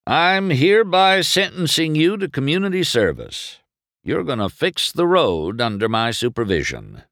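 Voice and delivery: high, emphatic pronouncement; Doc passing sentence. A narrator's reading. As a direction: lay down the sentence firmly. Doc passes sentence on McQueen.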